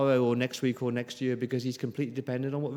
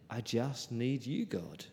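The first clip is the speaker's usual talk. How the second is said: hushed prayer; 8 dB quieter, slower than usual. Pretend. Quoted prayer.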